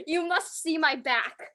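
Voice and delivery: Bagel. Pretend. Student speaking for the pet, lightly voiced and slow. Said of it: "Bagel was like".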